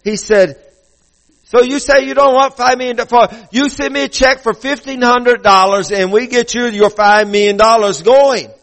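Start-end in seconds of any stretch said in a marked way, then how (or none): 1.4-8.5 higher-pitched imitated Asian-sounding caller; mock Asian-sounding sales pitch, pitched up; Asian-sounding accent. Caller asking for a check, imitated Asian-sounding accent. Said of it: "has an Asian-sounding accent".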